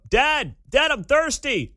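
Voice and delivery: put-on high, whiny little girl voice; little kid whining. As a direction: call out like a bored four-year-old. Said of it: "And I'd hear her go".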